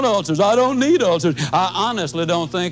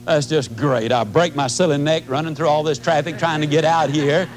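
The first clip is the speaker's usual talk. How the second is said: dry, sarcastic grumbling at the gate agent; sarcastic complaint. Pretend. Traveler mocking the agent about the cancelled flight, sarcastic. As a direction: gripe sarcastically, tired and put out. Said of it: "I could have gotten pretty sarcastic".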